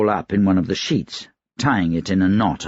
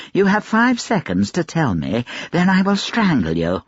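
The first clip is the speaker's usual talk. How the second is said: raised pitch, hard ultimatum; menacing threat; 9 semitones higher than usual. A narrator's reading. Gentleman gives the laundress five seconds, threatening. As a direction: deliver the ultimatum with force.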